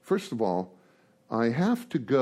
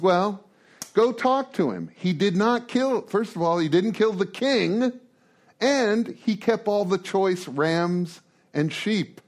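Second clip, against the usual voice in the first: voice of God; 5 semitones higher, slower than usual. Acted. God voiced complaining to Samuel.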